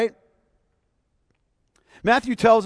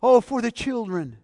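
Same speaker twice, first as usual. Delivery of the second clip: sarcastic, higher pious sigh; mock piety; 4 semitones higher, 3 dB louder than usual. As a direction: say it with mock concern. Mocks hypocritical pious excuse.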